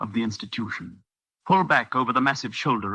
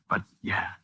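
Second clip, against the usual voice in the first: whispered admission; 4 dB quieter than usual. Acted. Amy admits she wants to believe.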